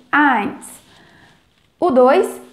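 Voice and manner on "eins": eins said like an A with an accent, as in "ais"; teaching pronunciation. Shown as a demonstration. Teacher models eins as "ais" for Brazilian students. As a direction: say eins clearly, opening to "ais". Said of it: "como se fosse um A com acento".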